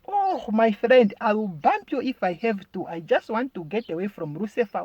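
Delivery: high wail coming down in pitch; mock desperate. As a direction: warn while fleeing in hammed-up panic. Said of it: "running away from the devil".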